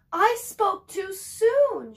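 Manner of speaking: high, loud, slow wail; crying out. Acted. Mother finds daughter's note gone, high slow wail. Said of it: "she cried".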